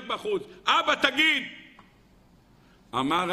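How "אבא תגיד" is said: put-on child's cry. Children scream for their father behind the door, high cry.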